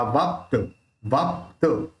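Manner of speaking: वाप्त as "vaap-ta"; आधा प जोड़ कर. Shown as a demonstration. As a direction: close वाप्त on a half p before a full ta. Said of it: "आगे वाले के साथ जोड़ के". (वाप्त में आधा प, पूरा त)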